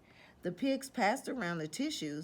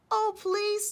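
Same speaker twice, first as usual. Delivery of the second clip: high, louder, snuffly begging; sniffling plea; 13 semitones higher, 5 dB louder than usual. Acted. Wolf with a cold begging the pig, sniffling.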